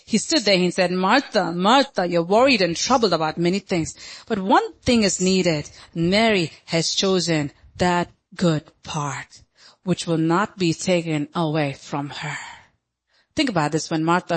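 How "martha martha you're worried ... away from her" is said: low-key, measured tenderness; loving. Acted. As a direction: correct her gently, taking your time. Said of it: "he's the God of love".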